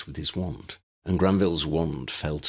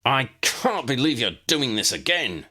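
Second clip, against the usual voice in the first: shout; 8 semitones higher, 3 dB louder than usual. Acted. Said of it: "Draco shouted".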